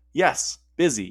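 slow, tired croak. Acted. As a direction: croak it out wearily. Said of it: "he croaked".

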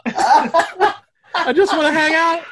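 very high, drawn-out little voice; slow, squeaky plea from a tiny creature; penis impression. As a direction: whine it slowly, way up high. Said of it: "That's my penis impression".

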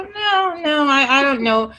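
high-pitched first no, then hesitant; lightly acted self-doubting protest; reluctant refusal. Agent brushing off colleagues' praise, reluctant, lightly retold.

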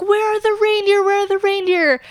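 put-on high excited child voice; little kid voice. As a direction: ask it like an eager six-year-old. Child self asking about reindeer.

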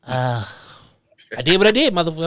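halting, grudging non-apology with long pauses; dragged-out, unrepentant mock apology; mock dry apology. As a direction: imitate a reluctant apology, stalling between phrases. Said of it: "that dry ass apology".

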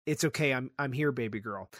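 soft, hushed comforting of a daughter; retelling Joel hushing Ellie; tender reassurance. Retold or imitated. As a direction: murmur it like soothing a frightened child.

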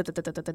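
low, soft, rapid stutter of syllables; quick muted rattling noise made with the mouth; imitated trembling. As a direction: tap out "da-da-da" like a shaking hand. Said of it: "like, shaking".

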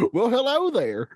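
lightly voiced wise old Jedi; a hint of kindly old hermit; Obi-Wan Kenobi. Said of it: "That's me as Obi-Wan".

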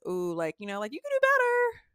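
high, sing-song hint; teasing gossip, lightly voiced; gossipy friend. Friends mocking a bad boyfriend, high and teasing. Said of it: "we're like this".

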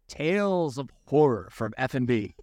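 hammed-up spooky segment intro; playful horror voice. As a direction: intone it like a campy horror show title. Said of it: "trying to give it a little horror".

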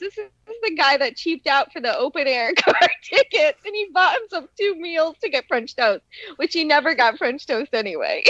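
teasing through laughter; laughing tease. Real, not acted. Wife teasing her husband about cheaping out, laughing. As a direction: rib him while laughing.

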